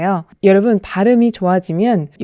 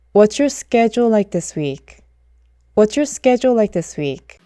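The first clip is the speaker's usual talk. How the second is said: What's your schedule like this week? slowly, sked-jool; slow, clear native phrasing; slow model sentence; slower than usual. Shown as a demonstration. Teacher modelling the phrase slowly. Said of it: "가 아니라".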